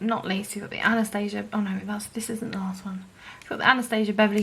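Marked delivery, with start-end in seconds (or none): 1.5-3.1 quick whispered self-correction; whispered aside. Real, not acted. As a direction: whisper it to yourself. Correcting herself under breath.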